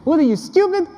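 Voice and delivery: put-on high, loud Russian dad accent; dad scolding his son over a report card in a heavy Russian accent. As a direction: bark it like a Russian father. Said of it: "in his heavy Russian accent say".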